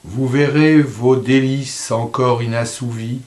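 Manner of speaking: measured verse reading, fading on the last line; poem recitation. Acted. Reader reciting a poem to a mother on coming bitterness, measured recitation. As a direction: recite evenly, letting the ending sink.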